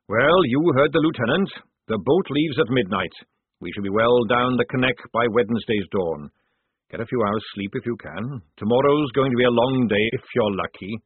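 lightly voiced sergeant briefing the lads; sergeant giving orders.

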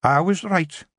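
slow, high Scots pixie, mystic; a wise woman reading her cauldron; seeing Kelda. Acted.

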